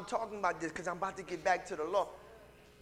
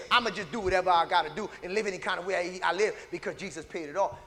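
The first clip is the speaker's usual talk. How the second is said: careless believer; 3 semitones lower, faster than usual. Retold or imitated. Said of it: "don't take that and say".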